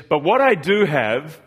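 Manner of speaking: slow, measured menace; a hint of a calm threat from a film hero; quoting Liam Neeson. Pastor quoting a kidnap film's hero, slow mock menace. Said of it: "He says".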